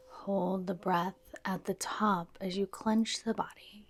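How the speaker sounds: soft, unhurried yoga nidra guidance; guided meditation. Real, not acted. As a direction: gently lead them into stillness, pausing between phrases.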